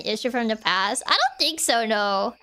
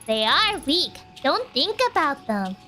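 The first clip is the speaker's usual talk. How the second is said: creepy calm cultist. Acted. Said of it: "this crazy girl voice".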